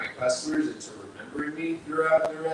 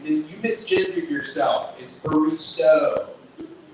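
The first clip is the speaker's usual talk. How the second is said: retold heckle; 3 semitones higher, 5 dB louder, slower than usual. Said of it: "some guy yelled out".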